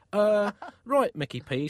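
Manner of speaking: hesitant, starting high then dropping; awkward. Acted. Pope reacting to the artist's odd plan, awkward. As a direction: stall uneasily before replying. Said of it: "said the Pope awkwardly".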